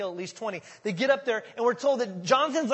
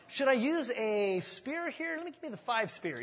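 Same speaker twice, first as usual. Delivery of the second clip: caddy voice; 5 semitones higher than usual. Acted. Armor bearer as caddy.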